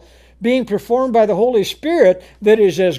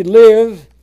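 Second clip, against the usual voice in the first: booming command; 3 semitones higher, 10 dB louder than usual. Acted. Preacher thunders God's command.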